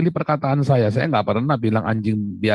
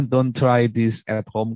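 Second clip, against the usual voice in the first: catchphrase warning; much slower than usual. Retold or imitated. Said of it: "saya selalu bilang".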